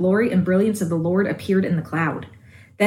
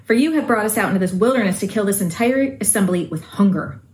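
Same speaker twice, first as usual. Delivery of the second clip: whining complaint; whiny voice. Shown as a demonstration. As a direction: whine it like ungrateful Israelites. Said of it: "I have to do this in a whiny voice".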